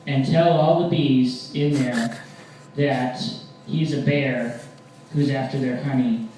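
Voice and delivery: emphatic vow, loud start easing off; mock threat. Boyfriend vowing revenge to girlfriend, emphatic mock anger. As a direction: launch loudly, then lay it out deliberately.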